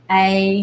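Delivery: A drawn out as the letter's name, "ay"; long A. Shown as a demonstration. Teacher showing pupils the long sound, long A. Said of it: "long sound is when the A says its name".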